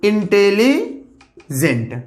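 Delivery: stretched very slowly; teacher dragging out the word intelligent; drawn out. Shown as a demonstration. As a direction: hold the word out long for emphasis. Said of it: "superlative degree guys हो जाएगा most".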